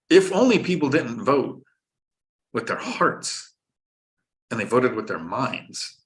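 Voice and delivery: slow, drawn-out mock lament; mock wistful lament. Landlord teasing voters on a live stream, mock wistful. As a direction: stretch it out wistfully, pausing between phrases.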